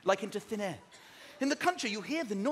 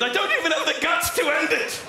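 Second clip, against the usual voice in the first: despairing pigeon; 5 semitones higher, 6 dB louder than usual. Retold or imitated. Pigeon voiced, loud.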